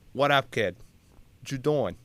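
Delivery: imitated Boston construction worker; Boston accent. Construction worker greets his buddy, in a Boston accent. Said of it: "because the accent's out".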